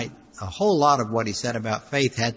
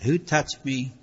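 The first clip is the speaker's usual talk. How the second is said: settled, sincere question; Jesus asking about the touch of faith, sincere; earnest, deeper meaning; 2 semitones higher, slower than usual. Shown as a demonstration. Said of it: "But he meant something deeper than that".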